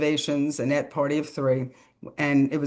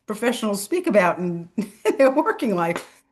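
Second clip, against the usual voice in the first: 1 laughing while talking; 7 semitones higher than usual. Real, not acted. Laughing while telling story.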